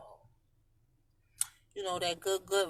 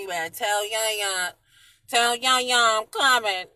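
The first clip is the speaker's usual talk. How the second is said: excited; 4 semitones higher, 11 dB louder than usual. Real, not acted. Excited about the road trip.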